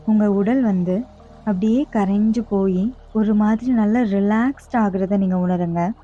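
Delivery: measured meditation guide with long pauses; guided meditation. Acted. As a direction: ease them through each breath, phrase by phrase. Leads relaxation and breathing.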